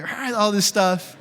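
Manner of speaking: high growled nonsense for a ranting dad; mock angry yelling. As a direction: imitate an angry rant without real words. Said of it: "the dad comes off the porch yelling out".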